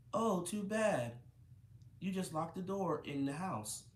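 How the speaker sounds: high, drawn-out mock lament; sad voice. A narrator's reading. Mother to locked-in preschooler, mock sad voice. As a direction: put on a mildly sad "oh, too bad". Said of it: "in a sad voice".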